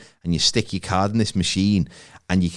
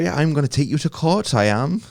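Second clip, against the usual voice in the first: put-on Bristol accent; 5 semitones higher than usual. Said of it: "there's a bit of Irish about".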